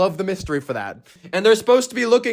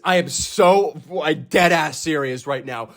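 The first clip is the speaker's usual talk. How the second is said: lower, earnest insistence; dead serious; 4 semitones lower than usual. Real, not acted. Reviewer insisting he is not joking, dead serious. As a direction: drop the pitch and insist you mean it. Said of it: "this is one hundred percent serious".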